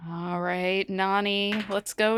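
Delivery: usual speaking voice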